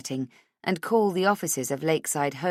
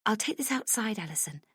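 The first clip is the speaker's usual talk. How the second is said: muffled voice; 5 semitones higher, 6 dB quieter than usual. A narrator's reading. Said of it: "in a muffled voice".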